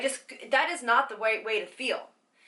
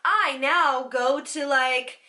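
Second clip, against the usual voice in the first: higher, louder, slow show-off brag; a hammed-up bragging voice; mock smug fitness type; 5 semitones higher, 4 dB louder, slower than usual. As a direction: parody a smug gym fanatic boasting. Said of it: "one of these that's like".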